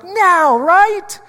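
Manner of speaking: high, eager mock question; excited disciples. Preacher mimics the disciples eagerly asking Jesus. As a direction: squeal it like impatient fans. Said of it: "They're like".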